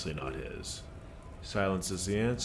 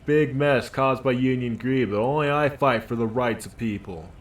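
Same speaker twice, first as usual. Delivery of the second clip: a dockworker puffed up and defensive; gruff union worker; 4 semitones higher, 7 dB louder than usual. Acted. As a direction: bark it out like a worker standing his ground. Voices union worker character.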